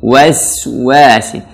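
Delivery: "Waswasi" slow, lips rounded on each W; pouted wa, thin sin. Shown as a demonstration. Teacher drilling learners, slow rounded "Waswasi". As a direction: pout the W, stretch the thin S in "Waswasi". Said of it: "wa manyun lagi".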